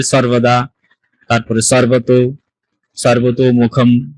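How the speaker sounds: সর্বদা, সর্বত with a crisp s, not sh; dental s pronunciation. Shown as a demonstration. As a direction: draw out সর্বত মুখম, starting on dental s. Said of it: "দন্ত স কে চ এর মতো উচ্চারণ করি".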